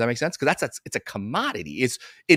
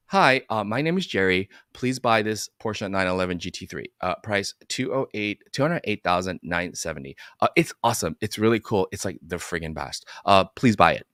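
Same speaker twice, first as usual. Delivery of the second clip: a bored, mumbled sales pitch; half-hearted salesman reading off the price; mumbling salesman; lame salesman pitch; 5 semitones lower than usual. Retold or imitated. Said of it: "this is how chiropractors present finances".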